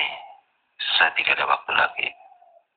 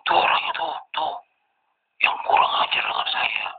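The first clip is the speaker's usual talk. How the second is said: pointing him out with a higher, raised yell; mock angry yelling; 13 semitones higher than usual. Armed man spots the narrator and yells angrily. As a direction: call him out angrily, the pitch jumping up. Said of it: "Dia teriak-teriak".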